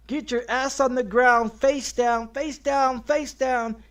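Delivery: retold officer shouting commands; cops yelling. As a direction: bark it like a cop with a gun drawn. Police ordering him to the ground.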